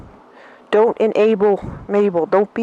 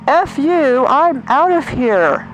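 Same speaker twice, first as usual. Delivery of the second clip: higher, drawn-out imagined kiss-off; playfully defiant, stretched at the end; mock defiant comeback; 5 semitones higher, slower than usual. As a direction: act out an indignant walkout line. Acts out own defiant comeback.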